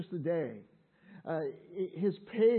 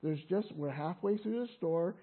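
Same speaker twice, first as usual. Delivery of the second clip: gently voiced, slightly lowered soothing tone; kindly calming mother; 3 semitones lower, 3 dB quieter than usual. Mother in the grocery store calming Monica, kindly and gently. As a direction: reassure softly, as a patient mother. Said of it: "speaking so kindly".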